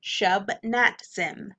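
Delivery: shub, nat, zim spoken unhurriedly; slow syllables. Shown as a demonstration. Teacher showing tongue-tied students, slow and careful. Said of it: "So say it slowly".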